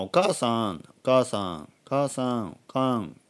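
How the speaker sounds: "お母さん" repeated evenly, ending in short "おかん"; word shortening demo. Shown as a demonstration. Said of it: "そんな感じですね".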